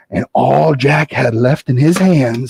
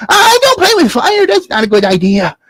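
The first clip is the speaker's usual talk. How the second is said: put-on scared boy Jack; 11 semitones higher than usual. Jack refuses candle.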